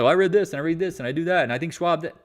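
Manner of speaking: fast, rattled-off mocking quote; mimicking followers. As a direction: rattle it off like an overeager amateur. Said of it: "folks coming here talking like".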